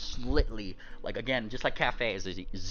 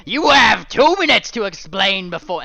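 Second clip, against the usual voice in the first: louder, sugary scolding; wife placating then warning husband; smug wife; 7 semitones higher, 12 dB louder than usual. Acted. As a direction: sweetly threaten him. Wife voice, raised.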